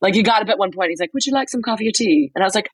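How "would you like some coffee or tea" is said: quick, higher British offer; British accent. Retold or imitated. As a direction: imitate a charming Brit offering politely. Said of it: "doing the British accent".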